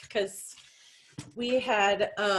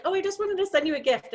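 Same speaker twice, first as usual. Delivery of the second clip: sweet reassurance; 10 semitones higher, faster than usual. Retold or imitated. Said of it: "I was like".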